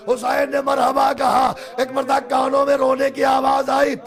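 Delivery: impassioned preaching; full-force preaching. Acted. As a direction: cry it out to the mourners. Lament preaching.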